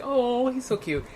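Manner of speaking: high, slow cooing mom voice; doting mom. Retold or imitated. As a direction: gush like the blind mother. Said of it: "his mother was like".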